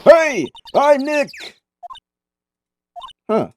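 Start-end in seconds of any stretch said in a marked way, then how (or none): 0.0-1.3 slow, high, raised-voice hello; big, drawn-out introduction pitched up high; louder call. Acted. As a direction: call it out louder to be picked up by a mic. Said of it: "Maybe I'm not saying it loud enough".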